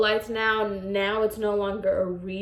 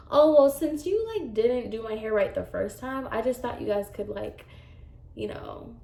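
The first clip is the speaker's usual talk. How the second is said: passive aggressive; 3 dB quieter than usual. Retold or imitated. Client blaming the stylist for the first visit, passive aggressive. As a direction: imitate a hinting client, trailing away quietly. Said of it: "very much that passive aggressive".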